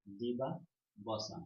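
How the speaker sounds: দিবাবসান stretched out in two slow parts; slow clear repeat. Shown as a demonstration. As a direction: repeat দিবাবসান very slowly, pausing midway. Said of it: "কি?".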